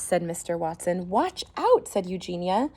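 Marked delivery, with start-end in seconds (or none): 1.1-1.9 high, loud alarm; warning cry. Acted. Neighbour warning the others, loud alarm. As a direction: yelp a warning.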